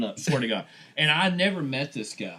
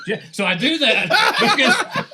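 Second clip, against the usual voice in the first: laughing; 10 semitones higher, 8 dB louder than usual. Real, not acted. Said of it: "laughing through explanation".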